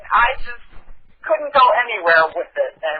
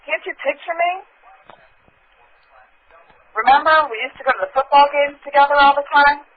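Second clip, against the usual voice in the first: put-on Valley Girl voice; 5 semitones higher than usual. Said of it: "like, a Valley Girl voice".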